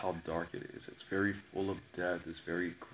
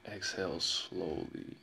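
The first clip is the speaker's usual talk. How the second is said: calm instruction; slower than usual. Shown as a demonstration. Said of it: "she taught me how to control your breath".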